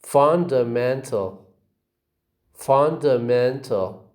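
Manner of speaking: "Fundamental" stressed on FUN and MEN; two stresses. Shown as a demonstration. Teacher shows example words, "Fundamental" with two stresses, FUN and MEN. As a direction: model "Fundamental" carefully, beats on FUN and MEN. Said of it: "You see two stresses".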